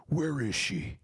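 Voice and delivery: a hint of a pushy high voice, asking where she is; lightly voiced intruder at the door; mock demanding friend. Yoshi at the door.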